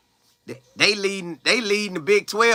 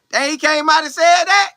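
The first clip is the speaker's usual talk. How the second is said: incredulous; 11 semitones higher, 4 dB louder than usual. Real, not acted. Rival coach's boast, disbelief again.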